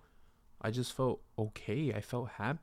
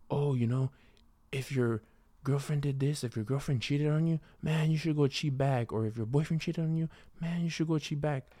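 imitating a pushy friend; 4 semitones higher than usual. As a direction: play the bro who says get even, pitched up and pushy. Friend giving bad advice.

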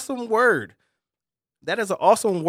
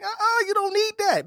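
God voice; 12 semitones higher than usual. Retold or imitated. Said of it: "God is like".

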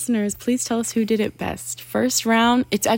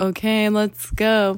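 meme voice; slower than usual. Retold or imitated. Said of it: "you know that meme that, that's like".

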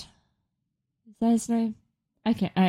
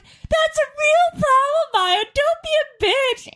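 much higher, louder, slow mock yell; mock dad yelling; 4 dB louder, slower than usual. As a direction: ham up the dad's outrage. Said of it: "my dad screams at her".

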